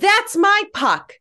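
yelled, way up high in pitch. Retelling the puck bouncing behind, imitating own yell: imitating own yell. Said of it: "I turn around and I yell".

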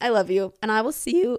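voice breaking and cracking mid-line. Signing off an episode to listeners, voice cracking. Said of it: "My voice cracks so much".

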